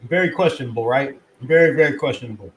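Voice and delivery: chewing while talking; talking through a mouthful of food; mouth full. Real, not acted. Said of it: "Sorry, I'm chewing".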